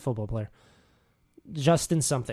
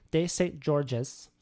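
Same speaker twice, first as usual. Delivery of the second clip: "de Saint George's" drawn out slowly in a mock French accent; awkward French accent; much slower than usual. Shown as a demonstration. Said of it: "I don't like that I'm saying it like that".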